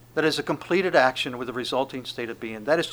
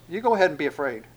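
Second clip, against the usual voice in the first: angel reassuring women; 3 semitones higher, 6 dB louder, faster than usual. Pretend. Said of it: "the angel goes".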